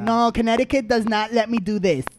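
hammed-up American English excuse; mock American accent. Blaming Connecticut for the mistake, mock American accent. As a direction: plead it with a put-on American accent.

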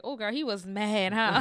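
put-on slow, laughing "girl, he was mad"; laughing gossip. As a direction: tease through a laugh. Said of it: "and I was like".

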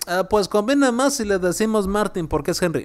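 mocking others who say Martín as MAR-tin, English style; lightly mocking the people who mispronounce Martín; imitating the wrong way. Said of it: "hay algunos que dicen".

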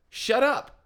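scold, pitched well up; retold telling-off. Moviegoer to talking, laughing kids, retold irritated scolding.

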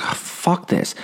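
breathless whispered give-up; fed-up whisper. Retold or imitated. Giving up on the slope, whispered to himself. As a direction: hiss it under your breath, done. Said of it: "So finally I was like".

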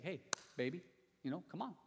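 lightly acted smooth-talking husband; mock-suave sweet talk to his wife; smooth and cool. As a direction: play at coaxing her, coolly. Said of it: "Solomon is being all smooth and cool here".

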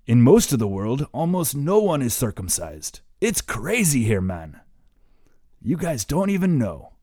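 put-on light German accent. Friend lecturing the boys, light German accent. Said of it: "in his funny German accent".

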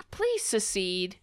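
soft, polite request; asking nicely. Shown as a demonstration. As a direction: ask it nicely, quietly. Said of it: "I'm asking nicely".

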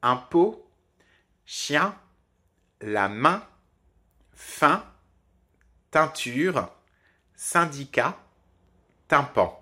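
chaque mot seul, voyelle nasale bien marquée; impôt, chien, fin, tympan, lents et nets, pause entre chaque; liste de mots détachés. Shown as a demonstration. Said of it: "Nous avons donc par exemple". (mots d'exemple isolés, nasale appuyée)

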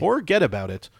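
lightly mocked New York accent. Co-host capping the New York bit, mock New York accent. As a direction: toss it off as a stock New Yorker. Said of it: "like, New York".

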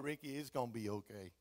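soft, low reassurance; peaceful wife. Retold or imitated. Peaceful wife settling her husband's argument, softly soothing. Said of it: "never met anyone as peaceful".

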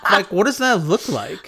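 high laughing question. Real, not acted. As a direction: squeal it through laughter. Laughing at own joke.

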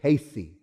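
CASEY with a hissed S, KAY-see; outsiders' pronunciation. Shown as a demonstration. Showing how the foreigners pronounce it, Casey as KAY-see. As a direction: say Casey with an S sound. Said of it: "how do the foreigners pronounce it?".

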